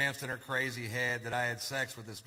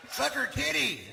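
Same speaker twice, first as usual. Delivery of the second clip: high-pitched little shoulder voice; mock conscience egging on; 12 semitones higher, 4 dB louder, slower than usual. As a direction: urge it on in a high, comic voice. Voicing his conscience egging him on.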